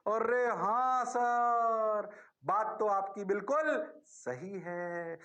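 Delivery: slow, drawn-out agreeing pupil; mock eager student. Teacher mimics a pupil agreeing with sir, slow and stretched.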